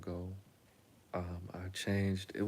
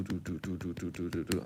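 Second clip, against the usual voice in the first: racing heartbeat; 3 semitones lower, 3 dB quieter than usual. Retold or imitated. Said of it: "my heart's do".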